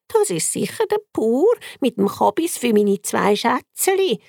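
put-on cheerful old lady calling out; calling grandma. Grandma calls toward the door, fondly. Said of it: "ruft das Grossi".

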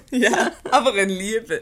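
laughing it off, amused; laughing fondly. Acted. Wife laughing to her mother about her husband. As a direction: chuckle through the words about her husband.

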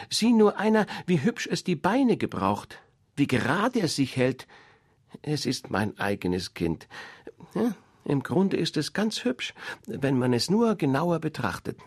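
high, loud, bustling mother duck; a proud mother showing off her brood. Acted.

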